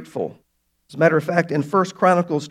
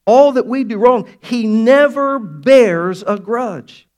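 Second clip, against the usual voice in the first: building preacher's call; 4 semitones higher, 5 dB louder, slower than usual. Real, not acted. Preaching climax.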